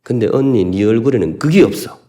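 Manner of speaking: retold sister snapping at her older sister; sharp retort. Younger sister snapping coldly at her sister. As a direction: throw the line like a cutting jab. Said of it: "동생이 언니한테 쏘아붙이는".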